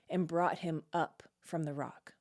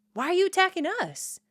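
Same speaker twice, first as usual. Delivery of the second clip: pleading men of Judah; 10 semitones higher, 4 dB louder than usual. Acted. Men of Judah plead, read aloud.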